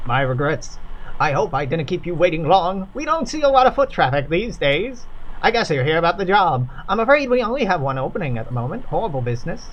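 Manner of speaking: put-on a patient, smiling drawl off an old tape; patient crackly drawl. Stranger's tape greeting the newcomers, patient smiling drawl. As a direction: sound like you're smiling through a slow drawl. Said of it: "Crackly drawl echoes out ... patient and sounds like it should be smiling".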